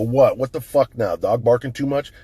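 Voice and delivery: loud, rude demand at the front door; irritated yelling at the door; retold angry snap. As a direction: bark it at the neighbor who came to complain. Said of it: "Yeah, I was a dick".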